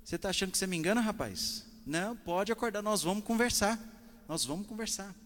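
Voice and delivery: high, loud no-nonsense wake-up order; stern father. Retold or imitated. Father telling the pretending son to wake up, stern and loud. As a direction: firmly call the sleeping boy's bluff. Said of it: "ele falou assim".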